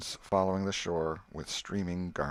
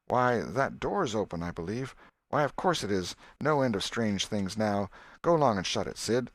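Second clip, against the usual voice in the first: put-on old aunt voice; 2 semitones higher, 4 dB louder than usual. Aunt Polly voiced in story.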